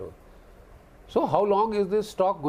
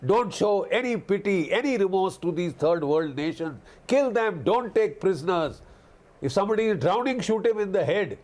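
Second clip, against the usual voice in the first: imitating a brutal order, a touch higher, rushing the drowning line; mock ruthless commander; 3 semitones higher than usual. Commentator mocking defence secretary's orders, mock brutal command. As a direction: sneer out the order like a thug general. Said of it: "he's trying to tell the American forces".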